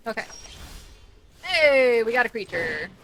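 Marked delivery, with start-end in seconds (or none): 1.4-2.9 loud excited hey. Real, not acted. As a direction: call it out happily. Happy at drawing a creature.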